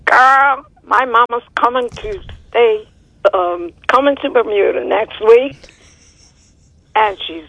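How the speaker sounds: chatty Bermudian translation; Bermudian accent. Shown as a demonstration. Caller translating the host's phrase, Bermudian accent. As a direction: put it into everyday Bermudian. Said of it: "In your best Bermudian accent".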